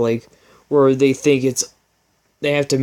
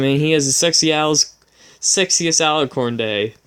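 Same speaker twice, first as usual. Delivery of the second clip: announcing; 2 semitones higher than usual. Acted. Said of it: "announced to all the ponies".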